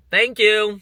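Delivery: high, loud quick thanks; mock polite. Shopper thanks the grumpy cashier before leaving, mock polite and high. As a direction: chirp an over-polite thanks.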